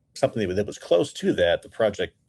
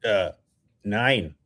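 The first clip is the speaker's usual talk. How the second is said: a light put-on German accent; clipped German "Nine" and "No moon"; 3 semitones higher, slower than usual. Shown as a demonstration. Asked to do a German accent, a light German voice. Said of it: "can you do a German accent".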